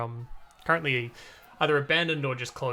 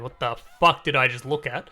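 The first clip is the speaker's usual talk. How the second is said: startled guard; 5 dB louder than usual. Acted.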